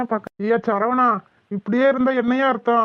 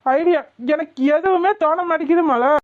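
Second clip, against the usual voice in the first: raised, higher-pitched frustrated protest; exasperated yelling; 3 semitones higher than usual. Acted. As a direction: snap back helplessly, voice lifting. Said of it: "எதுக்கு கத்துற?".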